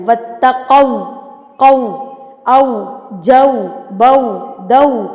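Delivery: واتقوا with a short rounded و, lips in a circle. Shown as a demonstration. Teacher shows the lip rounding of واتقوا, slowly. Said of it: "ہونٹوں کی گلائی سے پڑھنا ہے".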